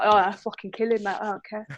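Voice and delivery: lightly voiced feisty Cockney demon. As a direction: toss it off with a hint of Cockney. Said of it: "She gets Cockney when she's angry".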